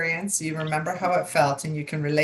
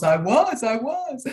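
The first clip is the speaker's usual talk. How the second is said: higher, lightly voiced client confessing; a hint of the stunned woman; client admitting; 7 semitones higher, 3 dB louder, slower than usual. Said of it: "And she goes".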